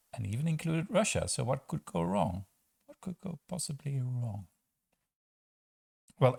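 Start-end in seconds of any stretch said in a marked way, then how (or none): 1.3-4.5 dry sarcastic question; mock-innocent, what could go wrong. Real, not acted. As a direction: roll your eyes at the obvious.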